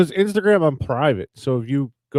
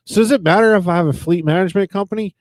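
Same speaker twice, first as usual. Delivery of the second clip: innocent trolling question; 7 semitones higher, 5 dB louder than usual. Retold or imitated. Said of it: "And I was like".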